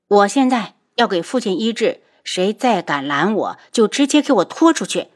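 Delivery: icy authority; cold command. Acted. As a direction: order them coldly. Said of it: "冷漠地扫了两眼". (冷漠地下令)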